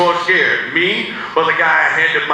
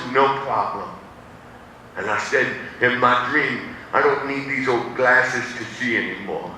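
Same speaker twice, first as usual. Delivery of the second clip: put-on boy telling his dreams, growing quiet and sad; wistful, slowing; 3 semitones lower, 3 dB quieter than usual. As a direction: let the hope ache through. Slow wistful dream speech.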